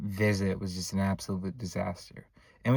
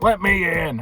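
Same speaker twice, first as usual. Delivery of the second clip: loud, high mock yell; retold scream; 6 semitones higher, 6 dB louder than usual. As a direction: imitate someone demanding to get in. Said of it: "he would scream to let me in".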